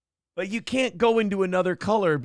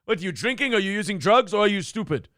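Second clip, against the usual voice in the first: mild mock berating; retold accusing questions, a touch of anger; imitated yelling boss; 3 semitones higher than usual. Mimicking the owner yelling at servers in recovery, mild mock yell. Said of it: "he would yell shit at them".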